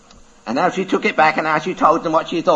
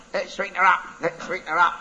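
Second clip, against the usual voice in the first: parrot voice; 4 semitones higher, faster than usual. Acted.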